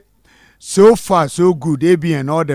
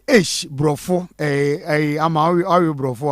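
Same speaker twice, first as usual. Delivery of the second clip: mock posh English. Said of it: "loving the ladies' accent".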